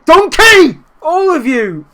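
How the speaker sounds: high, loud angry yell; furious shout. Real, not acted. Manager screaming at useless players, furious shout. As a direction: bellow it at the whole team.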